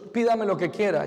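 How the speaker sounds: a generous God, lightly performed; voicing God. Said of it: "le dice Dios".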